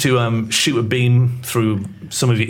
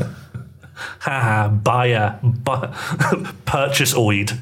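mocking laughter; much slower than usual. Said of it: "they're laughing at you going".

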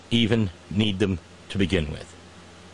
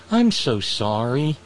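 mock sympathy; slower than usual. Mocking the fired forecaster.

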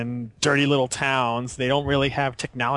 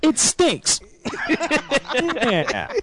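put-on old-timey voice; 13 semitones higher, much slower than usual. Joins the old-timey voice bit.

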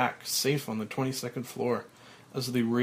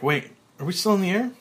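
sudden alarm; 7 semitones higher, 6 dB louder, faster than usual. Acted. Frank freezes mid-spin.

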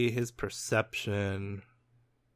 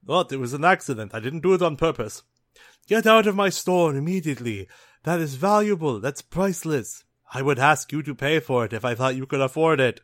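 angry shopkeeper; 3 semitones higher, 5 dB louder than usual. Acted. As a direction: scold them like a furious shopkeeper. Shopkeeper scolding the thieves.

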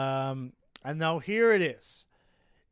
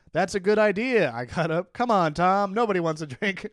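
1 urging Nick; 4 semitones higher, 4 dB louder than usual. Acted. Reading Nick urging leave.

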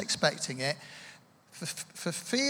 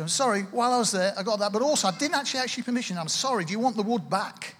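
hurried, slightly louder confession; retold apology; 3 semitones higher, 4 dB louder, faster than usual. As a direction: blurt out the apology as if on a call. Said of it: "rang her up, said".

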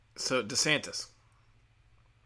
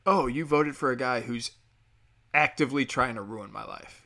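louder, indignant and accusing; 3 dB louder than usual. Retold or imitated. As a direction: make it an accusation. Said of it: "Now it's like".

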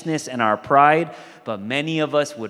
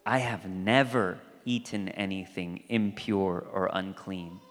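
Peter's protest; 7 semitones lower, 6 dB quieter than usual. Retold or imitated. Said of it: "To which Peter responds".

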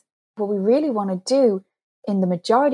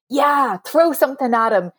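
higher-pitched, lightly mischievous urging; mock egging on; 5 semitones higher than usual. Coach voicing her brain's unlikely advice, jokingly egging on. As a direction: play the impulsive brain goading a fight.

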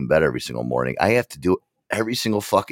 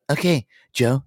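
higher, chipper assistant voice; voice assistant imitation; 8 semitones higher, 3 dB louder than usual. Assistant waking Joe from his alarm, imitated helper voice. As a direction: announce it like a helpful device. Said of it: "I'll Google Assistant".

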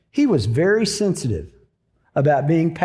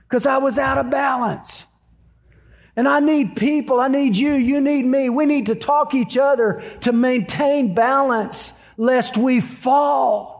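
higher-pitched, insistent sermon delivery; preacher's raised, urgent appeal; earnest preaching; 5 semitones higher than usual. Real, not acted. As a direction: drive the moral home to the congregation. Preaches the moral of the story.

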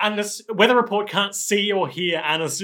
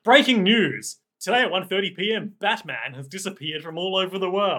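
brisk, punchy mock news flash; breaking news bulletin; 2 semitones higher than usual. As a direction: announce it as urgent breaking news. Mock news bulletin about Batman.

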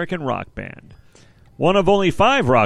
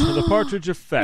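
much higher, gleeful call of the title; "The Partridge Effect" sung out high and thrilled; excited repeat; 10 semitones higher than usual. Acted. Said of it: "I'm so excited".

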